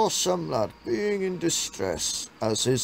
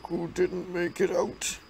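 quiet hurt voice; 3 semitones higher than usual. Acted. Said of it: "He then said in a quiet, hurt voice".

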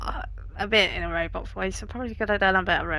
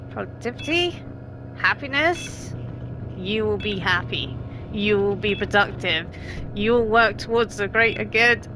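robot voice; 2 semitones lower than usual. Shown as a demonstration. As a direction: read it out like a robot. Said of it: "I read that in a robot".

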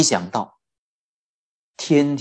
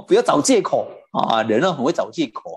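usual speaking voice

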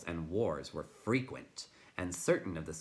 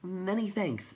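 high little creature voice; timid creature; 12 semitones higher, 3 dB louder, slower than usual. A narrator's reading. Will-o'-the-Wisp thanks the Tiny, timid high voice. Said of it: "coming timidly closer".

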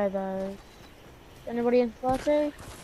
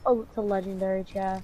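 disappointed; 2 semitones lower, 3 dB quieter than usual. Real, not acted. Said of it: "the disappointment in your voice".

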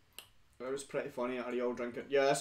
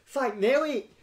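excited shout; 10 semitones higher, 8 dB louder, slower than usual. Real, not acted. Greets a viewer loudly.

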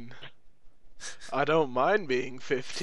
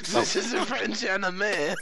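higher, drawn-out mock French accent; 5 semitones higher, slower than usual. Shown as a demonstration. Answering whether you can do accents, mock French accent. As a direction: put on a slow French accent. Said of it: "Can you do any other accents".

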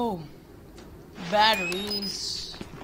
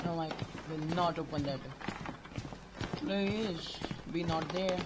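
scared hushed voice; 2 semitones lower, 10 dB quieter than usual. Real, not acted.

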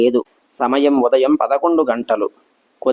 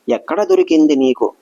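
a touch of amazement, lightly voiced grandmother; astonished question; 2 semitones higher than usual. A narrator's reading. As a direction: ask as if she can't believe it. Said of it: "party ఆశ్చర్యంతో అడిగింది". (ఆశ్చర్యంగా అడగడం)

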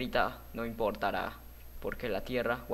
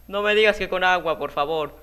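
louder, higher, insistent begging; dismayed plea; 5 semitones higher, 7 dB louder than usual. Real, not acted. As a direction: plead in exasperated disbelief. Suplica ante el agua. (súplica exasperada)

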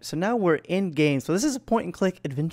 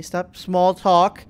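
sharp order; 4 semitones higher, 8 dB louder, much slower than usual. Acted. Acted row over taking medicine.

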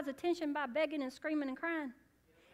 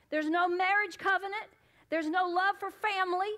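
raised pulpit rebuke; forceful preaching; 3 semitones higher, 6 dB louder than usual. Acted. Preacher voicing Jesus to the Canaanites, forceful rebuke. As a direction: press each charge home in a preacher's rising cadence.

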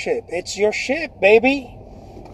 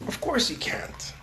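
genie whisper; 11 dB quieter, slower than usual. Acted. Genie answers the wish.

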